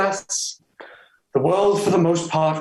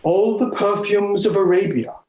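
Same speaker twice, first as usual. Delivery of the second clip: "all the perfumes of Arabia" declaimed a little higher, falling at the end; proud recitation; 4 semitones higher than usual. Acted. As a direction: recite it grandly. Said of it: "That was well spoke".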